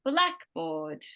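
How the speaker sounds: BLACK punched, board lighter in blackboard; stress on first half. Shown as a demonstration. Teacher modelling a compound noun, stress on BLACK in blackboard. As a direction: say blackboard with BLACK drawn out and stronger. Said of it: "there's more emphasis in that first".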